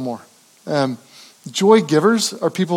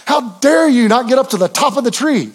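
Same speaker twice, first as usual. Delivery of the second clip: a hammed-up grandpa scold, pitched higher; mock scolding; 6 semitones higher than usual. Grandfather scolding granddaughters over the tree, mock-stern. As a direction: pretend to scold the little girls. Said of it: "didn't scold his granddaughters".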